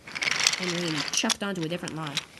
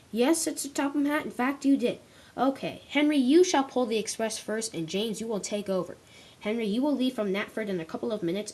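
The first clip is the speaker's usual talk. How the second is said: a hint of a stern controller, higher; lightly voiced boss handing out jobs; 3 semitones higher than usual. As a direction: give orders as the railway boss. Narrator voices Sir Topham Hatt.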